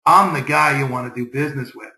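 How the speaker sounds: assured, low-pitched pitch to a new contact; calm, understated confidence; confident tone. Shown as a demonstration. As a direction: say it like you know your worth. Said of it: "builds that tone in your voice that says".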